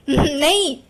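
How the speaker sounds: a loud, half-laughing angry "नहीं". Shown as a demonstration. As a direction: bark out "नहीं" like an angry man. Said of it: "गुस्सा के समय क्या आदमी बोल पाएगा". (हँसते हुए गुस्से वाला "नहीं")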